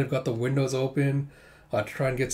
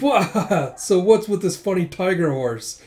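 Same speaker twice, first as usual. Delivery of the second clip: louder, higher mock guffaw into words; imitated laughter; 5 semitones higher, 5 dB louder, slower than usual. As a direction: burst out laughing at a friend. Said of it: "he starts laughing".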